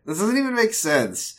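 real baffled exclamation; incredulous. Real, not acted. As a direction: still reeling from the news. Reacts to casting news.

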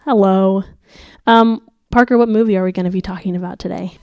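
muffled voice with a sore throat; sick voice. Real, not acted. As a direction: talk like your throat is swollen and sore. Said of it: "if it sounds like I have cotton balls in my mouth".

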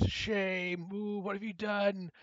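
high, stretched accusing call; mock shaming. Cosplay organizer pointing at Adam, high mock shaming. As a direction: imitate her shaming him before a crowd. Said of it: "she points at me and she goes".

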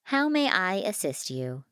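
lightly voiced service machine; courteous machine. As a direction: offer help as an obliging machine. Fabricator offers help again.

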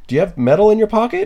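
a hammed-up, high, rushed version of the guard's question; mock guard voice. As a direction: pitch it way up like a flustered guard. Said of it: "and he's just like".

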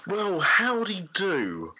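put-on slow, posh British DJ accent. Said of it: "this is my British D J voice".

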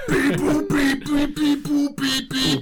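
high, loud beeping robot; toy robot voice. Pretend. Pixelated guitar robot sounds.

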